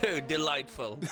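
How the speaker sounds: lightly put-on posh English; hint of hammed-up posh English; mock posh. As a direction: play the delighted toff. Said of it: "it's very posh tonight".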